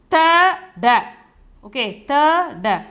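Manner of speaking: "Ta, da" as two separate syllables; letter by letter. Shown as a demonstration. Teacher reads out the written letters, syllable by syllable. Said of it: "But the pronunciation is tand".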